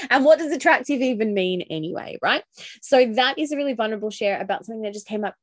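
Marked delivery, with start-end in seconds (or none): 0.1-2.2 laughing, higher-pitched rhetorical question; amused. Real, not acted. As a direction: laugh it off as you ask. Scoffs at her own belief.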